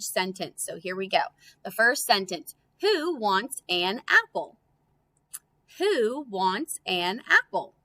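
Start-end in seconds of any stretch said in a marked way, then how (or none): 2.8-4.6 slow reading. Shown as a demonstration. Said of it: "point to the trick word". 5.8-7.7 slow reading. Shown as a demonstration. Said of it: "point to the trick word".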